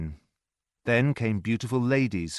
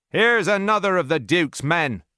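louder, higher triumphant shout; soldiers crying out; 8 semitones higher, 6 dB louder than usual. A narrator's reading. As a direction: call out as if you've caught another rebel. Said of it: "they cried".

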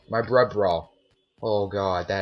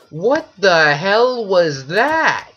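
shaken cry; 8 semitones higher, 8 dB louder, much slower than usual. Real, not acted. Shaken after the monster.

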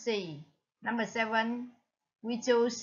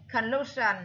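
conclusion stressed on CLU; second-syllable stress. Shown as a demonstration. Teacher gives the answer, conclusion stressed on the second syllable. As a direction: hit the middle syllable of conclusion. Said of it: "là nhấn ở âm số hai".

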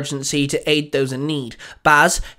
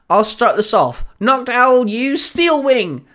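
much higher, slow commanding shout; calling out an attack; 8 semitones higher, 4 dB louder, slower than usual. A narrator's reading. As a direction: kid yelling orders to his Pokemon. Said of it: "Sam called out".

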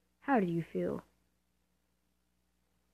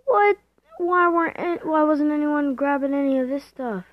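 shocked outburst; 6 semitones higher, 8 dB louder than usual. Real, not acted. Teammates left loot behind.

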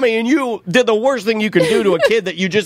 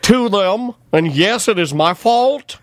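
mock-defeated, higher-pitched admission; sheepish, hammed-up confession; imitating defeated man; 4 semitones higher, slower than usual. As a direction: play a dad caving under a scolding. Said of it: "you could hear Tom get defeated".

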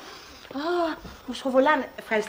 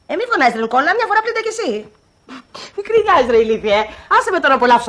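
angry phone yell; 6 dB louder than usual. Acted. Eleni yelling at Nikolas on the phone, angry. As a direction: scold him down the phone.

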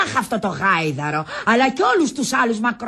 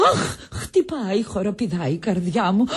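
feigned palpitations. Pretend. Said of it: "Έχω ανάγκη από μια καρδιακή κρίση".

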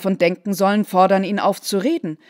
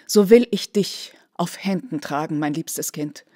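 zärtliches Flüstern; 5 semitones lower than usual. A narrator's reading. Mutter versöhnt sich zärtlich.

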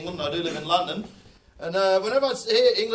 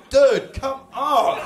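loud, drawn-out, high-pitched appeal; pleading mock protest; 8 semitones higher, 12 dB louder, much slower than usual. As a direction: play an exasperated plea, slow and loud. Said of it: "He's there just going".

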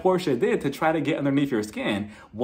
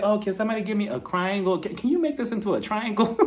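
higher-pitched fake-sweet request; mocking imitation; 6 semitones higher than usual. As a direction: tease with a high, petty lilt. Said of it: "she was just like".

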